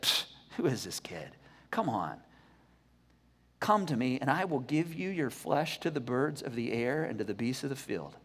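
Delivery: low, scornful sneer of a giant; mocking giant. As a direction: look down on the kid and scoff. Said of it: "He was like".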